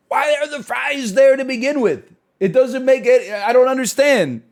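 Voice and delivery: high, loud incredulous outburst; exasperated rant. Real, not acted. Streamer ranting at a viewer's takeaway, loud and baffled. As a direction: throw up your hands, loudly baffled. Ranting at fries beside rice.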